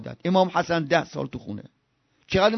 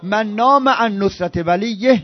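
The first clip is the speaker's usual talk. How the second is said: slow, deliberate Arabic quotation; measured Arabic recitation; slower than usual. Acted. Preacher quoting Nahj al-Balagha, slow and deliberate. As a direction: weigh every word of the saying.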